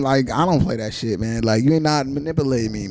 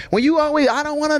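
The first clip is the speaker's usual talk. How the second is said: high, mocking imitation of her complaint; whiny ex-girlfriend; 14 semitones higher than usual. Mocking ex-girlfriend's complaint to friends, high whine. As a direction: squeak out her protest like a mock whine. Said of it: "she was like".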